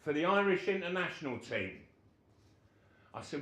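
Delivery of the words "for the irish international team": higher and louder, proud declaration; pitched-up boss voice, declaring; manager's loud announcement. Retold or imitated. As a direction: announce it like big news. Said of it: "He said".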